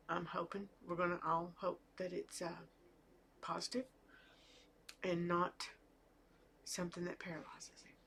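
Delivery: real worry, voice fading to a whisper; barely holding it together; emotional whisper. Real, not acted. Fearing her husband's procedure, tearful whisper. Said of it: "So I'm a little emotional".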